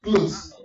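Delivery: "Clothes" imitated the British way, no T sound; British pronunciation. Comedian repeats how they now say it, imitated British pronunciation. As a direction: say "Clothes" as one syllable, like the British. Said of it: "they now say clothes".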